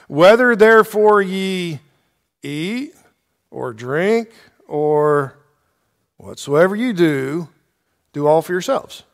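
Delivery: slow, halting quote with pauses between phrases; deliberate misquote. Shown as a demonstration. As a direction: lead them slowly into the wrong ending. Deliberate misquote, then corrected with "No.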